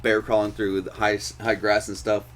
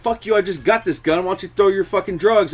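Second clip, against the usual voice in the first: retold squabble; 6 semitones higher than usual. Retold quarrel in car chase.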